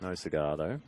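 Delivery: low, drawn-out character voice, lightly done; a hint of a children's storybook character, low and unhurried; Fat Controller. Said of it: "put your Fat Controller voice on".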